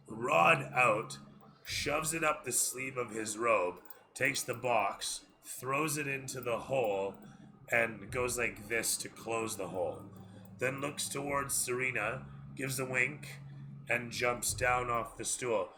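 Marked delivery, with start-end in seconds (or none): none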